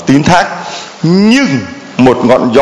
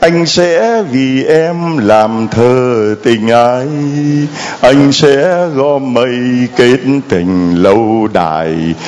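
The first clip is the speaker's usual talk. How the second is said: tender lover's promise; slower than usual. Acted. Lover's sweet promise voiced.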